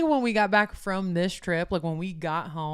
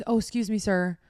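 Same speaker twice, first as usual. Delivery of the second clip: so nice; 2 semitones higher than usual. Retold or imitated. Traveller asking the man a second time to move, politely. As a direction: ask nicely to get by. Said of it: "Like, so nice".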